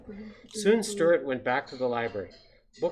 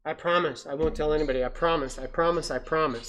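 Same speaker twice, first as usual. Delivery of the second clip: insistent mock-desperate promises; urgent pleading; 3 semitones higher, 4 dB louder than usual. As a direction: swear it over and over to save yourself. Mouse pleads for his life.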